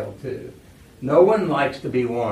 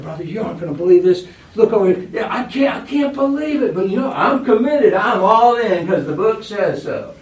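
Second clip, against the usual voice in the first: high, loud, fast and giddy; excited disbelief; 7 semitones higher, 8 dB louder than usual. Retold or imitated. To a brother in the church hall, high loud excited disbelief. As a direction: gush in mock disbelief at the rule.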